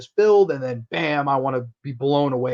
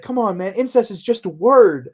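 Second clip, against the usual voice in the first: acted coaxing, pitched up and louder toward the end; hammed-up, higher-voiced dismissal; mock persuasion; 6 semitones higher, 6 dB louder than usual. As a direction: brush off his objection, playing the daughter. Acted possessed daughter coaxing her dad.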